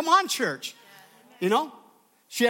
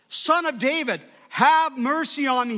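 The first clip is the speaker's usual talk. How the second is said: higher, louder cry of the blind man; retold shout; 4 semitones higher, 4 dB louder than usual. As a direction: call out for mercy, raised and pleading. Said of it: "he shouted".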